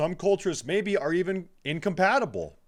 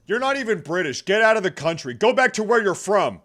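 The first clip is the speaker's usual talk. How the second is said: loud mock shout, higher; mock heckle; 6 semitones higher, 7 dB louder, faster than usual. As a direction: pretend to heckle the speaker.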